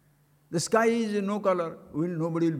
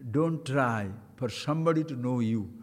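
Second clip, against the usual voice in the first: ordinary talk, nothing marked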